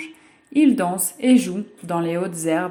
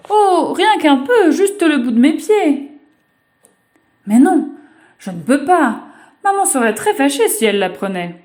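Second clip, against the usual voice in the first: put-on high, louder childish pleading with herself; a child bargaining with temptation; little girl; 7 semitones higher, 7 dB louder than usual. Girl torn between bathing and obeying mother, high childish.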